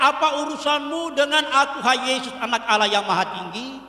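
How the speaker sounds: preacher voicing the demon's shout, understated; mild demon cry. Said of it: "Dengan keras dia berteriak".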